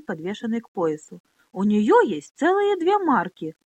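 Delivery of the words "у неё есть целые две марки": loud, slow, indignant; angry retort. Acted. Boy defends Minolli to Pona, loud and slow with anger. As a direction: throw the fact back at her. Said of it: "гневно сверкнув глазами".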